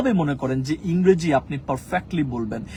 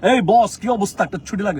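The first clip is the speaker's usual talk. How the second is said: breezy, too-familiar hail to the boss; overly casual demand; 2 semitones higher, 3 dB louder than usual. Acted. Employee asking the boss for leave, far too casually. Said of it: "ব্যাপারটা কিন্তু এরকমও না".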